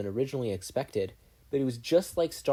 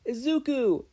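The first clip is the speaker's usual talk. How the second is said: high called-out name; yelling; 13 semitones higher, 3 dB louder, slower than usual. A narrator's reading. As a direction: call him loudly from the door. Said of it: "Inko yelled".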